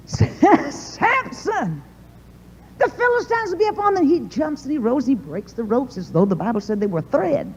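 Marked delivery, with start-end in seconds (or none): 0.1-4.1 much higher, teasing Delilah voice; mock sweet taunt. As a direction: tease him awake in a sugary tone. Delilah taunting the sleeping Samson.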